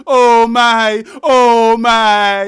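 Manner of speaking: mock swoon. Fan gushing over a radio DJ, loud mock swoon.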